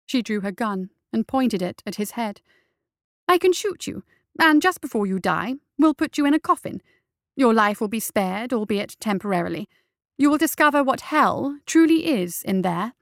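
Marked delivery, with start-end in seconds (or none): 3.3-12.9 cold, raised threat with a few pushed words; a judge's loud warning to a captive; menacing threat. Acted. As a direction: lean over him and spell out the threat. Justice threatens bound captive.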